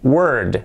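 WORD drawn out before a voiced D; careful model WORD; lengthened word. Shown as a demonstration. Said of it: "Alargándola un poquito por la D sonora".

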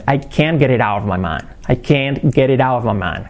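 "get it out" with t's as soft r's, run together; linked soft t's. Shown as a demonstration. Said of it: "las T's como R suaves".

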